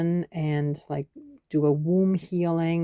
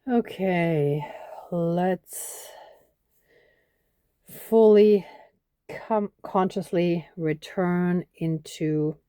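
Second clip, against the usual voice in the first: guided meditation. Acted. Leads breathing and closing prayer.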